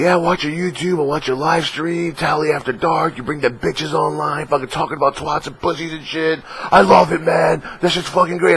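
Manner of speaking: high, excited fan voice gushing praise. Retold or imitated. Fan gushing to the streamer about his live stream, high and excited. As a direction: play the starstruck fan raving.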